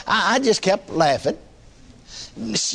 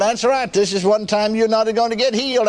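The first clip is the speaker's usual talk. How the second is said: the devil; 5 semitones higher than usual. Retold or imitated. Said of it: "devil don't like to be laughed at".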